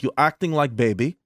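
lightly imitated Russian accent; mild Russian-accented scolding; Russian doctor. Doctor scolding her patient, light Russian accent. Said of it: "had a nice Russian doctor".

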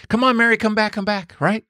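high, rapid urgent pleading; imitated yelling. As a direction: mimic rescuers calling someone back to life. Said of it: "they're yelling at her".

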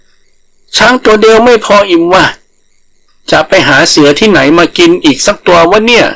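a tiny rabbit playing the big predator; boastful rabbit. Rabbit bluffing so the tiger overhears, slow swagger.

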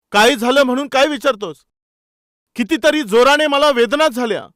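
mock-hurt shouting young man; pained outcry. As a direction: cry out in pain and outrage. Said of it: "तो जोराने ओरडू लागला".

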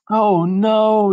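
high, loud wail of dismay; dismayed yell. Acted. Mother seeing the rain flood, high dismayed yell. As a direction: cry out in alarm, stretching the words. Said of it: "yelled her mother".

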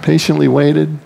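"Patiently" leaned on with ironic disbelief; a sceptical stress on "Patiently", tongue in cheek; wry repeat. Shown as a demonstration. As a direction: repeat "Patiently waited" as if it's a joke. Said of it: "Give me a break".

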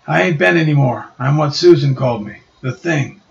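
a bruiser giving in; gruff Ben. Acted. Ben answering Reed, lightly gruff. Ben names himself the Thing.

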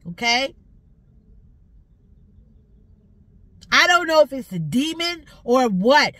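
loud, furious rant at whoever touches her car; angry shouting. Real, not acted. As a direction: yell it out, fed up and furious. Ranting loudly at car tamperer.

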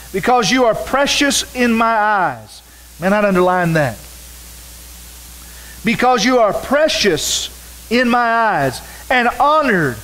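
preacher reading Isaiah aloud; scripture reading. Acted. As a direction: proclaim the verses to the congregation. Reads scripture aloud in sermon.

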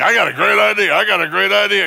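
mock excited idea. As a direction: pitch the idea like it's brilliant. Acting excited self.

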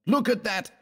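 high-pitched urgent exclamation; crying out. A narrator's reading. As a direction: call attention, voice leaping up in pitch. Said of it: "cried West".

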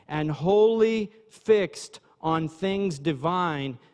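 slow, measured reading aloud; slow formal reading. Acted. Preacher reading a definition of trance, slow measured reading. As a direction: read it out slowly, phrase by phrase.

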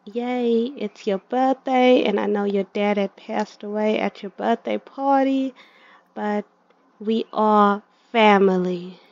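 a hint of sugary stepmother, brighter on yay and birthday; mock cheerful stepmother. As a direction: sell the fake cheer of the birthday invite. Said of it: "She's gonna tell her".

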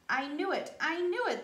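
a touch of triumphant beaver; excited beaver. Acted. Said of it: "the beaver says".

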